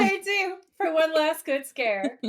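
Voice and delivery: high, loud, slow spooky tease; spooky excited. Acted. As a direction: draw out the last good scare. Spooky echo of warning.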